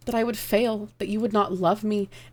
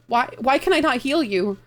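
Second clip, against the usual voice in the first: desperate plea; 6 semitones higher, 4 dB louder than usual. Acted. Can't heal dying lover.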